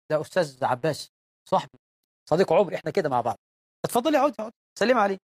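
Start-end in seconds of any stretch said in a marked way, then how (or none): 3.8-5.2 tag withheld. Acted. Acts husband ushering wife to guest.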